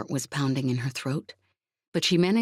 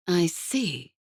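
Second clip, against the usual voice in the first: ironic; 3 semitones higher than usual. A narrator's reading. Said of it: "making no effort to hide the irony in her tone".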